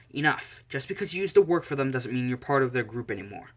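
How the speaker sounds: firm intervention. Acted. Momo steps between two armed men.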